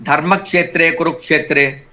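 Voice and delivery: क्षेत्रे with a crisp k before the sh; clear क्ष. Shown as a demonstration. Teacher recites the Gita line to show the pure क्ष. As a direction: sound the k in क्षेत्रे. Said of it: "का का भी उसमें टिन जाना चाहिए".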